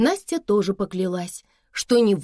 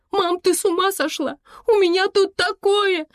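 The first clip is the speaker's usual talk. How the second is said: much higher, louder, frantic cry; panicked shout; 13 semitones higher, 4 dB louder than usual. Acted. Girl shouting at her mother over the phone, high and frantic. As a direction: yell it in disbelief, voice climbing. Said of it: "закричала Саша".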